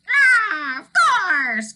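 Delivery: very high loud croak; croaking old gull. Acted. Old gull answers Elmer, high loud croaking. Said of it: "croaked the very old gull".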